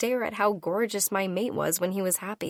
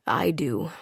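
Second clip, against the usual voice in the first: whispered; 4 semitones lower than usual. A narrator's reading. Whispered answer.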